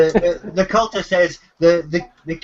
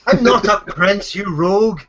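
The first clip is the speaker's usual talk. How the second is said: indignant captive; 3 semitones higher, 3 dB louder than usual. Acted. Captive in the cell rebukes the rogue, mock indignant. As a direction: protest the title with playful outrage. Game master voices offended captive.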